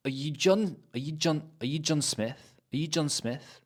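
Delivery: "are" reduced to "uh" in "are you John Smith"; weak are. Shown as a demonstration. Teacher drilling "are you John Smith", weak "are". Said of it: "Not, "Are you John Smith?".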